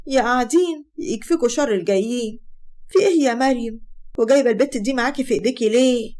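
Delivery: sarcastic, unwelcoming challenge; hostile greeting. Acted. Munira opens the door to unwanted guests, hostile. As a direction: greet unwanted visitors with open disdain.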